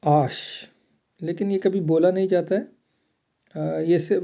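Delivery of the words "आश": आश, ash sound; French H name. Shown as a demonstration. Teacher names letter H as आश. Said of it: "pronunciation इसका आश है".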